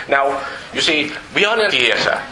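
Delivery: light Welsh lilt, storyteller; Welsh accent. Retold or imitated. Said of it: "This is part of a Welsh accent".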